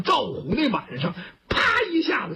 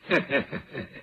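low chuckle; 8 semitones lower than usual. Acted. Villain sneers at rival on roof.

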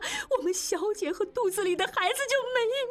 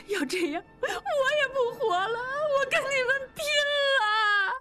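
a servant sobbing in outrage at the masters; wailing sob; 6 semitones higher than usual. Acted. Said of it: "哇一声大哭起来". (放声大哭地控诉)

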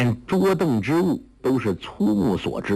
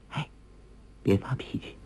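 breathy whisper right at his ear, much softer; 10 dB quieter than usual. A narrator's reading. Huang Rong calming Guo Jing at the window, soft whisper. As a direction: hush him gently, barely voiced. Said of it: "一个柔软的声音在耳边轻声说".

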